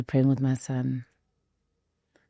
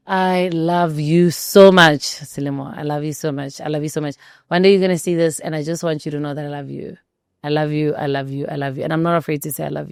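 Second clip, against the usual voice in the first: tender message. Real, not acted. Message to her baby son.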